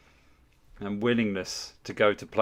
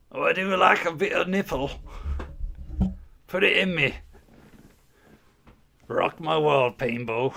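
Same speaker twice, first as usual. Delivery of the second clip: higher, louder hammed-up swooning; mock lustful; 6 semitones higher, 3 dB louder than usual. Teasing a donor about his Scottish wife, hammed-up mock lust. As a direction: camp it up like a swooning fan.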